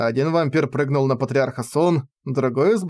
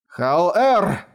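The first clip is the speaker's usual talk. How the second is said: hurried shout; 3 semitones higher than usual. A narrator's reading. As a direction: call the name out in haste. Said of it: "в спешке крикнул дух пилюли".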